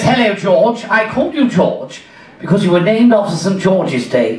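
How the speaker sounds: put-on English father; English accent. Father explaining his son's name, English accent. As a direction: voice an Englishman, enunciated. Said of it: "the Englishman says".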